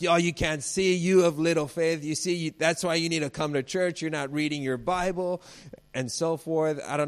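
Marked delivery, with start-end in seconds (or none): 0.0-5.4 high, loud preachy lecturing; mock judgmental scolding. Elijah imagined judging the servant, high loud mock scolding. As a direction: scold like a self-righteous churchgoer, high and loud. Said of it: "completely judged the servant".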